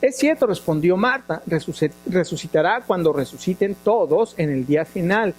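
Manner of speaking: measured, even Bible-reading voice; scripture reading. Acted. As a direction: read the passage steadily to the congregation. Reads scripture passage aloud.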